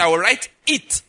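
"it" picked out with weight; stress on IT. Shown as a demonstration. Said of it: "I emphasize the word it".

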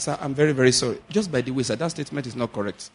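softly polite reply to a boss; nice apology. Shown as a demonstration. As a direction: apologise gently, letting the volume sink. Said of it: "explain to him nicely".

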